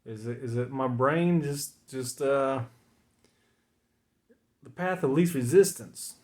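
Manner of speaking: slipping into a Southern accent. Real, not acted. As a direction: let the Southern accent creep in. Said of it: "Here comes the Southern accent".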